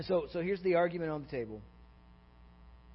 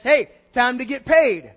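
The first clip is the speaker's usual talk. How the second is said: loud, higher call to the workers; 6 semitones higher, 14 dB louder than usual. Acted. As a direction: holler it out slowly like a foreman. Foreman calls workers to be paid.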